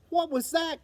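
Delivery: surprised little cry; startled cry. Acted. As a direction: jump at the strange noise. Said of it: "cried Flap".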